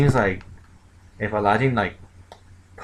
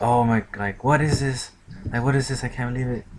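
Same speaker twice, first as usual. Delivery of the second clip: higher-pitched mock astonishment; retold disbelief; 3 semitones higher than usual. Bandits reacting to the huge sprinting body, in mock disbelief. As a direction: voice the gang's shock, pitch raised.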